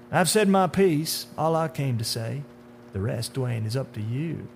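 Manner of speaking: starts high and emphatic, settles down; sinister man in dark suit. Acted. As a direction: wash your hands of him.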